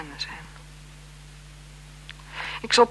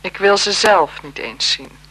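louder, slow and firm; cold refusal; 6 dB louder than usual. Acted. Marquise refusing the blackmailer's photos, slow and firm. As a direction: push the photos away, firmly.

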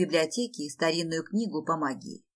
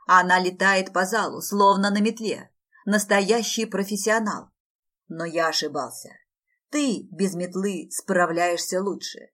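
scolding coach; 4 dB louder than usual. Acted. Coach berating student.

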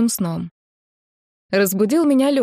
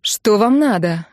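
резко; 3 dB louder, slower than usual. Acted. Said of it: "резко сказала я".

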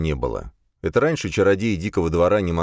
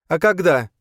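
put-on high, impatient young woman's voice; an exasperated girl pushing to leave; Boya, impatient; 12 semitones higher, 5 dB louder than usual. Boya impatient with the others, high and pushy.

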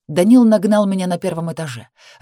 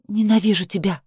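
trembling voice; 2 semitones higher than usual. Acted. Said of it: "Голос дрожал".

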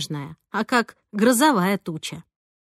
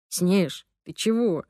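мягко, по-доброму, чуть тише; спокойно спросить, без упрёка; добродушно; 2 semitones lower, slower than usual. A narrator's reading. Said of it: "добродушно спросил Ромка". (добродушно, мягко)

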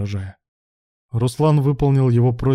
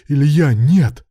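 loud, raised cry of protest; desperate shout; 4 semitones higher, 7 dB louder, much slower than usual. A narrator's reading. Man stopping his leaving partner, desperate shout. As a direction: call out loudly to stop him.

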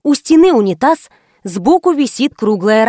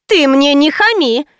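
flaring up; 4 semitones higher than usual. A narrator's reading. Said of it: "взвилась клиентка".

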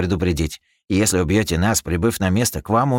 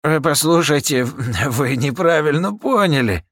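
slow, high nervous appeal; nervous pleading; 8 semitones higher, 3 dB louder, slower than usual. Acted. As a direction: plead nervously to calm him. Captain placates gunman.

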